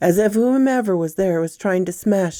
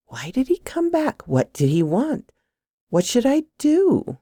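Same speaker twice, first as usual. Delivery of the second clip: high, rising anxious questions; anxious thoughts; 9 semitones higher than usual. A narrator's reading. Woman wondering why her date came back, anxious. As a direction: race through worried questions, pitched up.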